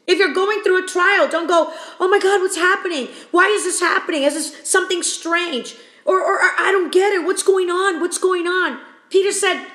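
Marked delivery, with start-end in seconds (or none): 2.0-8.8 higher, hurried panicky voice with laughs; a touch of fretful alarm; mock panic. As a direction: play the flustered believer, half laughing. Mocking a panicked believer.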